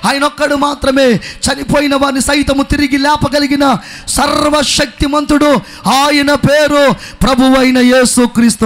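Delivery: slow, loud and emphatic shout; loud booming proclamation. Retold or imitated. Doctor declares to the healed man, loud slow shout. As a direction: proclaim it slowly at full volume. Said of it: "చాలా బిగ్గరగా ఆయన చెప్తున్నాడు".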